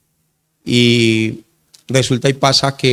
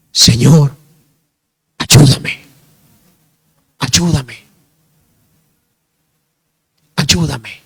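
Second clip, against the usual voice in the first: sincere prayer; much slower than usual. Retold or imitated. Preacher retelling a short plea to the Lord, sincere. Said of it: "Fue algo con mucha sinceridad".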